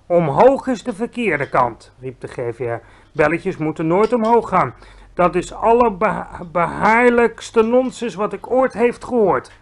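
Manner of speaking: a giant who can't believe the question; indignant giant. Acted. Giant correcting Sophie about fropskottel, offended.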